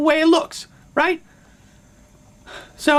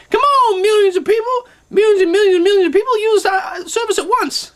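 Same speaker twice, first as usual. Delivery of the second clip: mock Jobs boast; 4 semitones higher than usual. Jobs boasting about users, a hammed-up pitch. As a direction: brag like a showman. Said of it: "he's like".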